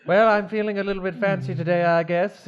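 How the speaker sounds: lightly put-on fancy attendant voice; courteous fancy attendant. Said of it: "That's a fancy voice".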